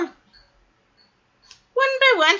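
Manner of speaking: one, by, one, stretched out slow; drawn out slowly. A narrator's reading. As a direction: savor each word, slowly. Slow dramatic storytelling.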